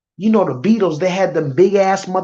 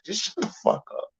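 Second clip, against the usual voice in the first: whispered; 10 dB quieter, faster than usual. Real, not acted. Streamer muttering at the clip.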